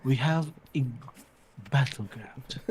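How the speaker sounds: lightly voiced British wildlife narrator, measured and pausing; David Attenborough. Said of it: "si Attenberg daw".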